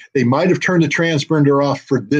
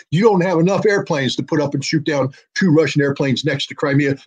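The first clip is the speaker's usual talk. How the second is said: heated rant; 3 semitones higher than usual. Real, not acted. Heated rant addressing absent senator.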